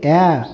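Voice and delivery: "ॲ" as the open vowel in apple; phonic sound of A. Shown as a demonstration. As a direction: give "ॲ" as an open a, not ay. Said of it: "एचा उच्चार काय येते?".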